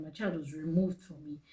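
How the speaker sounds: near whisper. Real, not acted. Painful admission, voice drops.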